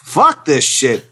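grumbling, cursing fish; angry fish character. Acted. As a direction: play a fed-up starving fish father. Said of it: "Character number seven from two thousand sixteen from Tim".

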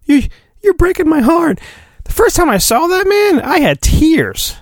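high, mock-tearful heroine; Padme voice. As Padme pleading with Anakin, in a high mock-tearful voice. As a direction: lift the voice into a breaking, teary plea. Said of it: "Right here she says".

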